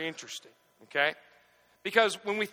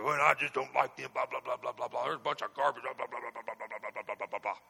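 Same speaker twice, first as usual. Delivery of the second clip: a hint of a sneaky gossip, lower and much softer; mock badmouthing; 6 semitones lower, 6 dB quieter than usual. Preacher mimics a churchgoer badmouthing someone in the lot, low and hushed. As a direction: grumble it behind their back, trailing away. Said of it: "badmouth you as soon as they hugged you".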